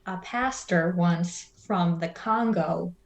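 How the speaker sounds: low, slow storytelling drawl; pastor's funny story. Retold or imitated. Pastor telling a joke to a kid in the car, low and slow. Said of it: "And he was just like".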